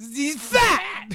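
high strained wrestler voice; exaggerated stuttering outburst; Scott Steiner. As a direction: blurt it out like an enraged wrestler. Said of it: "He starts stuttering".

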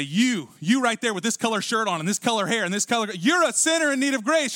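single them out, building as you go; preacher's mock finger-pointing, climbing in pitch; pointed accusation. Singles out one listener as sinner.

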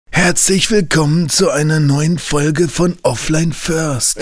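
hammy stage-actor welcome; a touch of grand stage delivery; theatrical. Acted. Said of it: "Ich meinte jetzt nicht unbedingt die Stimme".

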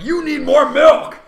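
high, drawn-out yell; Taika Waititi. Acted. Director forces milk on a choking viewer, hammed-up shout. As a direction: bellow it as an overbearing force-feeder.

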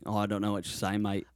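lightly voiced Australian local. Australian man telling a lobby visitor he can't understand, Australian accent. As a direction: answer with a casual Australian accent. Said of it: "a guy in the lobby in Australia".

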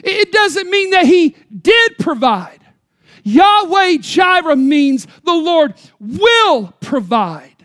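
loud, high, insistent preaching; preaching at full force. Acted. Preacher pressing the congregation, loud and high. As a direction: drive the point home to the church.

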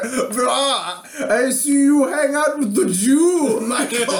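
mock vampire. Vampire accosting friends in the park, lightly voiced mock villain. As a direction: play a cartoon vampire popping up. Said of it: "this vampire just shows up and is like".

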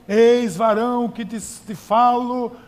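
put-on slow, loud, solemn old-Bible tone; mock prophet voice. Preacher mocking a fake prophet to the congregation, slow and loud. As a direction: ham up a false prophet's grand pronouncement. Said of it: "voz diferente, mais rouco do que eu sou".

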